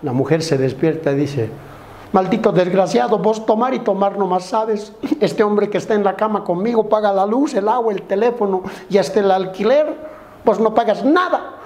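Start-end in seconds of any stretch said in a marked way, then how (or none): 2.1-11.5 higher-pitched mock tirade; scolding wife. Wife woken in bed berates drinking husband, higher mock scolding. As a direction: berate in a raised, nagging voice.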